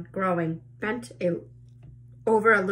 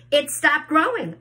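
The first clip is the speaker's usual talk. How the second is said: higher, loud cry; 8 semitones higher, 7 dB louder than usual. A narrator's reading. Aunt Spiker cries out that the peach has stopped, high and loud. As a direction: cry it out in relief. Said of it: "Aunt Spiker cried".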